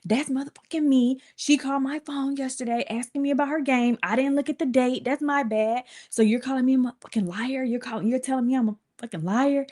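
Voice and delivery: high, indignant mock rant; mom's angry rant. Mother confronting coaches who doubt her, high indignant rant. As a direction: play mom refusing to be called a liar, pitched high. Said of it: "She said".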